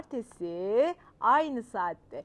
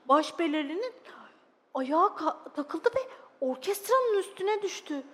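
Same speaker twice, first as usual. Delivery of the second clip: expressive, dramatised storytelling; children's story narration; 6 dB louder than usual. Acted. Narrator telling children of a sad little dog, expressive storytelling. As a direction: read it to small children with feeling.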